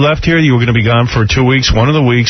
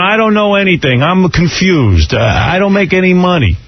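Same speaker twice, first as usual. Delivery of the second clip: Stuttering John. Retold or imitated. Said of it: "Everything's like, "Oh, I'm Stuttering John".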